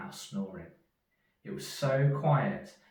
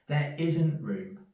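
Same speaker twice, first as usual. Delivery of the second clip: slow, sleepy refusal; a drowsy grown-up mouse saying no; lightly voiced Big Mouse; 5 semitones higher, 4 dB louder, slower than usual. Big Mouse turns Little Mouse away: slow sleepy grumble.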